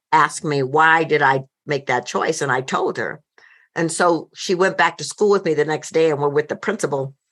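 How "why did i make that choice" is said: plain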